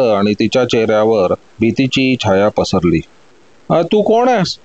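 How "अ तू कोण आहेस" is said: put-on startled young woman asking who's there, a little higher; a touch of fear, waking to a stranger; frightened question. A narrator's reading. Vasanti wakes to find a thief, asks in fright. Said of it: "तिनं घाबरत विचारलं".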